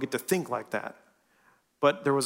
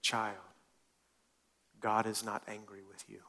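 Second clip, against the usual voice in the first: gentle repetition; 4 semitones lower, 11 dB quieter than usual. Shown as a demonstration. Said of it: "say this a different way".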